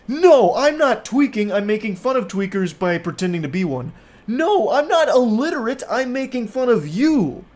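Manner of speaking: high-pitched mock protest; hammed-up indignant impression of an arguer; whiny defensive texter. Mockingly voicing the texter's defense.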